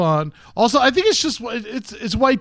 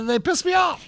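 mock shout; 13 semitones higher than usual. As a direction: blurt it out in mock rage. Mock angry outburst.

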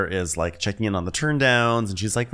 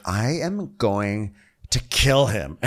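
put-on slow, drawn-out drunken threat; drunk Terry; much slower than usual. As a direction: imitate a sloshed guest vowing revenge. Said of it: "Terry's like".

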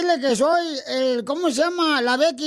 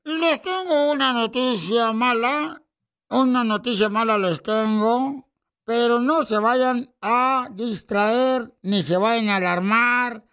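ship captain; slower than usual. Acted. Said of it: "dice el capitán del barco".

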